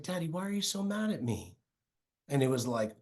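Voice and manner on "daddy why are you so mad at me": put-on little girl's hurt question. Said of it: "she just said".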